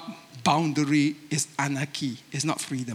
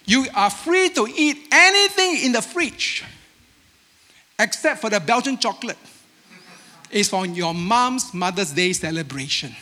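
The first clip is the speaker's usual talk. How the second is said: dad voice; 3 semitones higher than usual. Retold or imitated. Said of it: "dad will say to the children".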